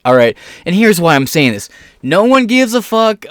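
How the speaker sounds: usual speaking voice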